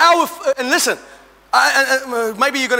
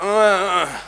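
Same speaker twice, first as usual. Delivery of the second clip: imitated morning grunt; 7 semitones lower than usual. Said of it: "I know that means".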